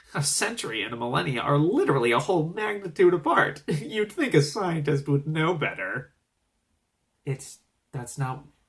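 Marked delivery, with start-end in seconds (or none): 0.2-6.2 dripping smug, superior, know-it-all lecturing tone. Imitating a reviewer mocking an anime dub's wording: imitating a smug critic. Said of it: "this guy's voice in particular was just like".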